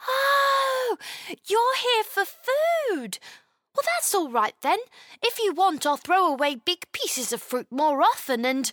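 put-on high, delighted little girl; light up with relief, pitched high; happy realisation. A narrator's reading. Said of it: "Chloe's shock turned into happiness".

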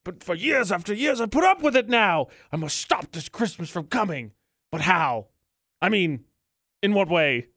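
lightly voiced Grinch, rising up on the complaint; a hint of the grumbling Grinch plotting; Grinch quote. Host imitating the Grinch for his co-host, mildly hammed-up. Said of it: "all I could picture in my head is".

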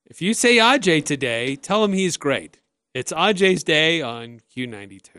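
lightly imitated announcer, slowing down; hint of a measured on-air liner; radio station liner. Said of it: "they would do this thing where".

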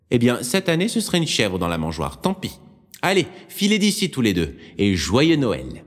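put-on high, loud old woman's voice, climbing to a squeak; a fussy old nun getting worked up; old nun, flustered. Old nun calling to Sister Marine, high and flustered.

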